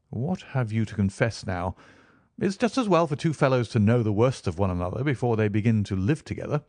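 lightly voiced Holmes.

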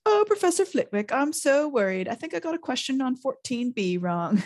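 high, fluttery mock schoolgirl voice; hammed-up high-pitched worry. A narrator's reading. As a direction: Ron mocking a worried swot in falsetto. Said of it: "He put on a high voice".

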